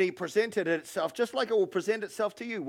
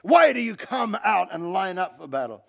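loud, declaimed battle challenge; preacher voicing a giant's shout; Goliath's shouted challenge; 5 dB louder than usual. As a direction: call out to the ranks like a challenger. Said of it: "He shouted".

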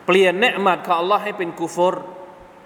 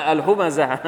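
laughing at own mistake. Real, not acted. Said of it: "ผิดละ".

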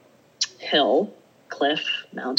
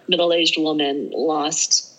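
mock headline. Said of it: "the newspapers are gonna say".

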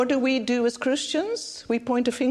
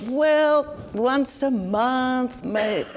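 mock hedging; 2 semitones higher, much slower than usual. Preacher imitating people asked about Bible reading, mock hedging. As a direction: stall over an awkward answer, imitating someone else. Acts people's reluctant answer.

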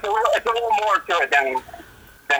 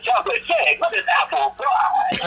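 mock announcer voice; 5 semitones higher than usual. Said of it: "He should totally talk like that".

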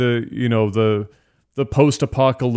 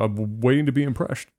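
Sean Connery voice; 4 dB quieter than usual. Acted. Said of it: "Please answer in your best Sean Connery impersonation".

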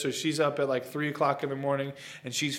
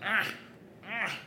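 imitated baby squeal; 4 semitones higher, 8 dB quieter than usual. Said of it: "he starts squealing".

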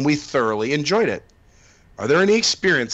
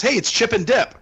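pitched-up character hello; mock cast member greeting; 9 semitones higher than usual. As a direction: play it like a park greeter. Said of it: "being real to your kids".

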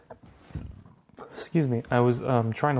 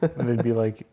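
laughing. Real, not acted. Laughing while telling.

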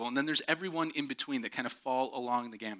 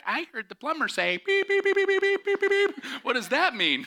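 put-on high curious child, beeps shrieked; 6 dB louder than usual. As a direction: innocent kid repeating swears. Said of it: "My kids are gonna walk out and be like".

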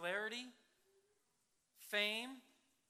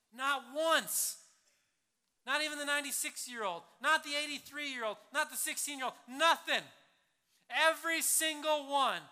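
louder, higher, punching each not; emphatic insistence; 6 semitones higher, 11 dB louder than usual. Real, not acted. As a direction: hammer the point home to the crowd. Preacher insisting, listing ages.

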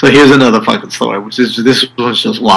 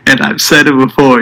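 through gritted teeth; 5 semitones higher than usual. Retold or imitated. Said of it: "he's screaming this into his cell phone".

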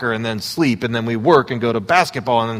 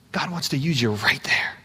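soft whisper; 5 dB quieter than usual. Real, not acted. Intimate aside to congregation.

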